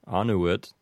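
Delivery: annuit stressed on the first syllable; Latin annuit. Shown as a demonstration. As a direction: say annuit as AH-noo-it. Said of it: "So that would be".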